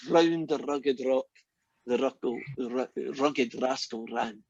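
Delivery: half-stumbling rolled-R tongue twister. Shown as a demonstration. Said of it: "I'll take an open volunteer".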